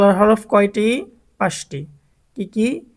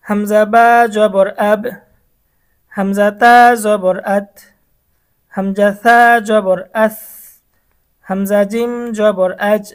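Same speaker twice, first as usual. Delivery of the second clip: slow recitation drill; slower than usual. Shown as a demonstration. Teacher recites letters while students repeat along, measured drill. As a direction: recite each syllable clearly for students to repeat.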